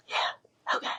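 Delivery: soft whispered resignation; breathy whispered yes. Retold or imitated. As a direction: barely voice it, giving in. Quietly accepting the nurse's words.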